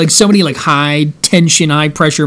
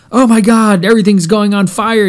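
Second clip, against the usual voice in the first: higher-pitched mock freak-out; mock panic; 4 semitones higher than usual. Customer freaking out during a sales call, mock panic. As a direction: play someone panicking as everything goes wrong.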